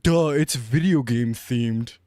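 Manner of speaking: low, slow mock-dimwit delivery; dopey mock realization; Slowpoke meme voice. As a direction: say it slowly, as if very late to catch on. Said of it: "it's like the Slowpoke meme".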